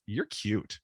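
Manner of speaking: low, hushed come-on; flirty low voice. Retold or imitated. Woman teasing narrator before walking off, hushed and low. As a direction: drop it soft and low as a tease. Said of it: "She goes".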